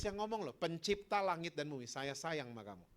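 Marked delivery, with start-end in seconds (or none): 1.9-2.8 soft, low declaration of love; tender, lowered assurance; loving reassurance. Acted. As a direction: say it gently, with quiet certainty. Voices Jesus declaring his love.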